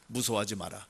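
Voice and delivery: usual speaking voice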